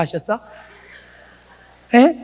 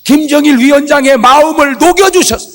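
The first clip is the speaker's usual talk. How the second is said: high, loud pleading that builds to a shout; defiant prayer; 7 semitones higher, 5 dB louder than usual. Retold or imitated. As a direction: re-enact confronting God with a demanding plea. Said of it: "막 대들었어". (하나님께 대들듯 높고 크게 기도)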